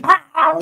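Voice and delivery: high-pitched imitation of a man yelling; short wordless mock outburst. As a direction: imitate someone flying off the hook. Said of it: "you yelling, you".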